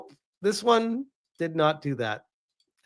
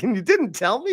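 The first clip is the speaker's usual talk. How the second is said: mock wife; 5 semitones higher than usual. Wife accusing, laughing.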